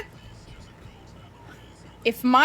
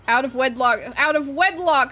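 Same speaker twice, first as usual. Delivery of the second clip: mock scandalised; 3 semitones higher, 6 dB louder than usual. Real, not acted.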